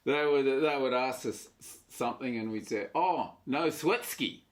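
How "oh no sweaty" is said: slow, fake Russian-sounding Aussie phrase; mock Russian accent. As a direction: say it like broken Russian. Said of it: "'cause your accent's so shit".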